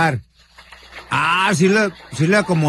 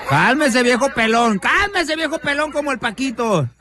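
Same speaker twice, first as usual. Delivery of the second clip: high teasing sing-song, higher on the second cálmese; mocking taunt; 4 semitones higher than usual. Host mocking the man in the video, high teasing taunt. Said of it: "le está diciendo el vato".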